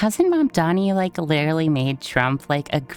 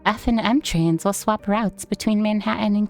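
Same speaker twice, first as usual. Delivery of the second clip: flat robotic announcement read. Acted. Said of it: "why did I read that in a robot voice".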